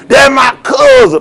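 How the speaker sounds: slow, mocking shout. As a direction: spit it out slowly as a sneer. Mocking protesters' claim.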